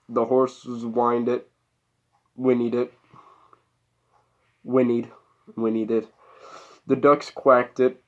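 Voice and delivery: measured read-aloud narration; story narration. A narrator's reading.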